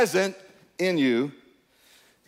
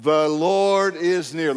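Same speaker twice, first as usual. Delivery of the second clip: reading aloud together; slower than usual. Real, not acted. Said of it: "could we read it out loud together".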